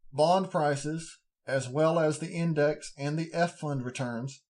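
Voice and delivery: talking through hiccups; reading while hiccuping, words interrupted. Real, not acted. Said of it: "Pardon me, I'm hiccuping".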